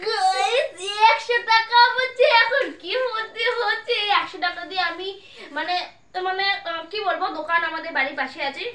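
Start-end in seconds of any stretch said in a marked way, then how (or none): 0.1-3.9 high, loud, slow thrilled shout; excited. Real, not acted. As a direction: announce the win with delight. Announcing another prize win.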